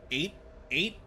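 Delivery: laughing. Real, not acted. Laughing at own slip.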